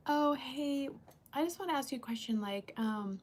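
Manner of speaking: soft, quick, sweet-talking ask; tiptoeing around it to stay nice; sugarcoated ask. Shown as a demonstration. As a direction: ease into the question gently and fast. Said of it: "I'll just come out like".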